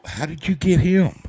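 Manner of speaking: slow, loud, high imitation of amazement; amazed. Others ask how he got that doctor, amazed. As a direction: stretch the question high in mock astonishment.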